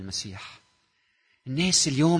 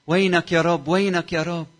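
higher, louder cry of a desperate woman; woman's cry; 7 semitones higher, 8 dB louder than usual. Acted. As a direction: cry out as the suffering woman, pleading. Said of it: "عم تصرخ لإلي وتقول". (صرخة امرأة متألمة)

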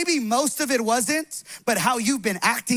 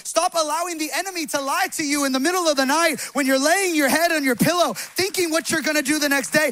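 higher-energy, insistent exhortation; preaching at full force; 4 semitones higher, 4 dB louder than usual. Real, not acted. Pastor exhorting the congregation to stop believing lies, forceful preaching. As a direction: urge them on with rising force.

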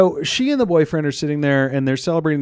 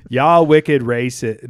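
put-on Boston accent; 3 semitones lower, 4 dB louder, slower than usual. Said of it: "that's not a Boston accent".

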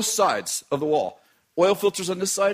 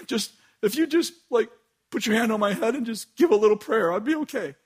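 pleading; 3 semitones higher than usual. Retold or imitated. Gary's retold dramatic pleading.

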